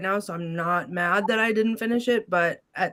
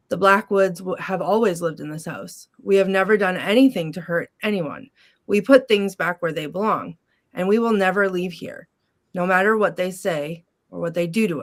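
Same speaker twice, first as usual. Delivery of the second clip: reading aloud. Shown as a demonstration. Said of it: "so I'm gonna read it".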